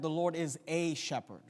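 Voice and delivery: A said as a full, separate word; stress on A. Shown as a demonstration. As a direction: lean on the article A, stating a doctrine. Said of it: "he could have made a doctrinal statement".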